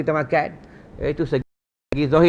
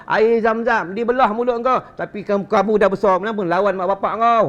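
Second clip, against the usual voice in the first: angry teacher; 3 semitones higher than usual. Retold or imitated. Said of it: "Marah tok guru dulu".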